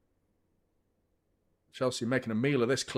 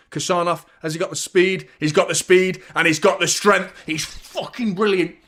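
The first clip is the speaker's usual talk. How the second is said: louder, rising as Kusanov races Delap; excited commentary; 4 semitones higher, 6 dB louder than usual. Real, not acted. Fan cheering his defender in a foot race, excited.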